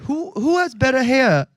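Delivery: put-on British accent, starting high. American DJ fishing for a compliment, in a British accent. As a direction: ask it in a mock British voice. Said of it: "This accent is killing me".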